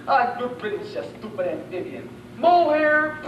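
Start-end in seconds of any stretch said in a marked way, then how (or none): 2.4-3.2 loud call of "Mohair!". Acted. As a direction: call the name out, louder. Calling after the departed.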